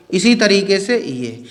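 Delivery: "इसी तरीके से ये" said slowly, word by word; slow repeat. Shown as a demonstration. Teacher repeating for his class, slowly. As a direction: repeat it slowly so students follow.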